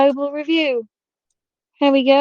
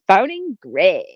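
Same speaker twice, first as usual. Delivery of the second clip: excited Siri; 3 semitones lower than usual. Retold or imitated. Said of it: "she sounds really excited to speak to Greg".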